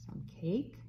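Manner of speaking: soft secret whisper. Acted. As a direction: whisper it like a surprise. Whispered aside.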